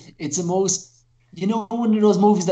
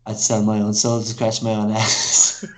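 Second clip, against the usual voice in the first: slow, lower, solemn vow; worm character's vow; 8 semitones lower, slower than usual. Retold or imitated. Worm man answering his friend, slow and low mock solemn. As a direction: declare it with grave earnestness. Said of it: "And he says".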